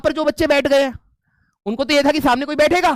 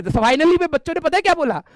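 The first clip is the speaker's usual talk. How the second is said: usual speaking voice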